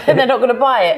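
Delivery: laughing through the words; giggling as she speaks. Real, not acted.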